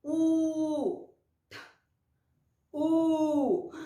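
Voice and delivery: U held long and steady; letter sound demo. Shown as a demonstration. Teacher showing the sound of U, sounded out. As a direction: sustain each U separately. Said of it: "o sonzinho delas".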